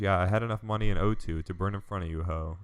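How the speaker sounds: flat text-to-speech reading; robot voice. Retold or imitated. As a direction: read it like a robot voice. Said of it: "You sound like a text-to-speech robot".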